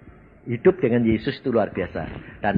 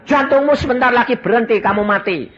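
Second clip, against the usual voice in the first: higher, louder mocking devil's voice, not fully hammed; taunting devil; 10 semitones higher, 5 dB louder than usual. Preacher voicing Satan's threat, a higher louder taunt. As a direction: play Satan sneering that the heart will stop. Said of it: "Setan bilang".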